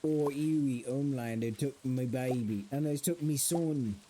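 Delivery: lightly put-on British accent; attempted British accent. Quoting a line about his son, attempted British accent. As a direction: quote it in a shaky try at British. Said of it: "let me try to do that accent".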